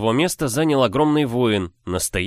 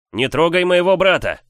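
shouting; 9 semitones higher, 6 dB louder than usual. Acted. Hero shouts at giant.

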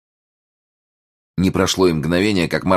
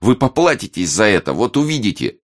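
put-on high, stung boyish threat; indignant threat; 6 semitones higher, 3 dB louder than usual. A narrator's reading. Crying young reporter warns Martin, indignant. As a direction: threaten him from a beaten position.

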